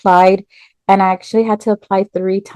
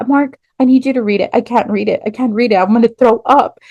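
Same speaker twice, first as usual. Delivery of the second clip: nervous panic; 3 semitones higher than usual. Retold or imitated. Too nervous to read the email.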